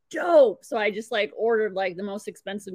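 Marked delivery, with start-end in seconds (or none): 0.1-0.6 high, loud happy exclaim; pumped about a free meal; excited dope. Retold or imitated. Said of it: "And I was like".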